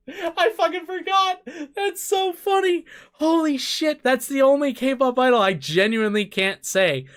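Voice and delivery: very high, breaking up with laughter; tickled by your own mistake; real laughing disbelief. Real, not acted. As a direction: squeal it through the laughs. Laughing at his own slip.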